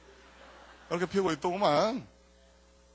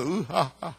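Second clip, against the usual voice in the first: forced laugh; much slower than usual. Retold or imitated. Father mimics laughing along with his sons. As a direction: laugh along without getting the joke. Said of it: "나도 할 수 없이 웃었어".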